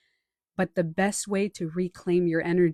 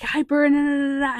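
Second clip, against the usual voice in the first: mock hyper crowd; 7 semitones higher, 6 dB louder than usual.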